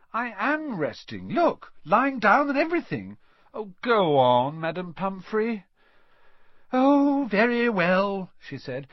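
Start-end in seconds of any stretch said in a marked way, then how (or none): 0.1-5.6 put-on high, insistent boyish protest; louder as the begging builds; wheedling. A narrator's reading. Boy wheedles the matron. 6.7-8.3 loud, very high, drawn-out concession; grudging, starchy surrender; exasperated matron. A narrator's reading. Matron gives in reluctantly.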